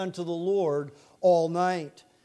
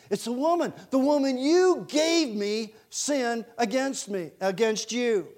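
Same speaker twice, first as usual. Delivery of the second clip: higher-pitched, emphatic finger-pointing; mock accusing; 4 semitones higher than usual. Adam acted blaming Eve.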